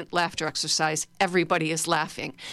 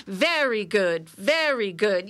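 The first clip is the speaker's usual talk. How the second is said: slow praise; slower than usual. Shown as a demonstration. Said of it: "do it with me".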